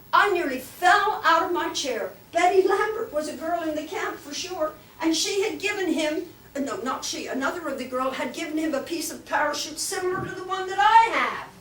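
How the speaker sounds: high, loud astonishment; excited. Real, not acted. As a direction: tell it in amazed excitement.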